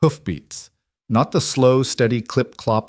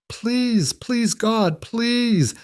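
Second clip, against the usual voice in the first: desperate prayer; 14 semitones higher, much slower than usual. A narrator's reading. Mother begging God as her child is taken, high and pleading. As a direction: beg God through the breaking voice. Mother prays aloud in despair.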